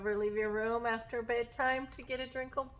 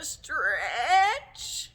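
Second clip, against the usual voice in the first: one long word rising upward; drawn-out stretching; 2 semitones higher, 6 dB louder than usual. Shown as a demonstration. Teacher leads children in a big stretch, drawn-out word.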